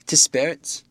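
put-on a frightened old landlady. Mrs Hall, frightened.

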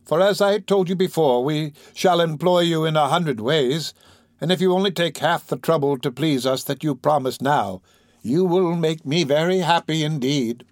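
lightly voiced gentle lady, measured pace; kindly young lady. Miss Maylie promises Oliver work, kindly. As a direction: reassure with a smile in the voice.

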